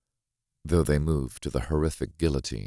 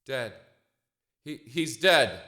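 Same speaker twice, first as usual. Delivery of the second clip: higher, stammering in shock; shocked verdict; 11 semitones higher than usual. Acted. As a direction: blurt it out, stunned by the death. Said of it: "I pronounce the verdict".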